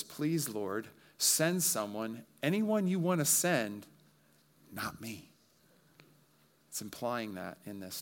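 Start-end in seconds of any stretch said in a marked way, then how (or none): 0.0-5.3 slow pleading whine that jumps up then fades; reluctant Moses pleading. Acted. Moses begging God not to send him, whining. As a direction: beg God to pick anyone else. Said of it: "In other words".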